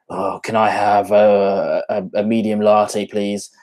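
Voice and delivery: slow, reluctant coffee order; retold order, a touch grumpy and dragged out; mildly grumpy. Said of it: "grumpy as hell, as a British person would be".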